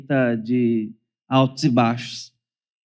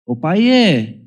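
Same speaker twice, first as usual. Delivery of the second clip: put-on polite child's request; 2 semitones higher, 4 dB louder, much slower than usual. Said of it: "Uma petição formal".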